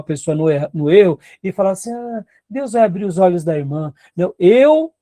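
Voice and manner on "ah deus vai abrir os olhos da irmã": mock soft passive excuse. Pastor mocks a complacent leader with a hint of a soft, passive voice. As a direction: shrug it off, leaving it to God. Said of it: "a gente não pode ser frouxo".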